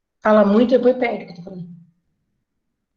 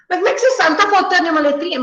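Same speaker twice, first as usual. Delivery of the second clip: teasing teacher; 6 semitones higher, much faster than usual. Retold or imitated. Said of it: "Você tem certeza".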